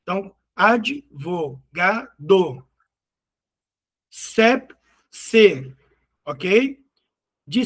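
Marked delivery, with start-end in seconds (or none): 0.5-2.1 "advogado" in four beats, ad, vo, ga, do; syllable by syllable. Shown as a demonstration. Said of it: "Com mais de três sílabas". 4.1-5.7 "Sep-, se" as two isolated syllables; long pause between "Sep-" and "se". Shown as a demonstration. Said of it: "Também tem duas sílabas".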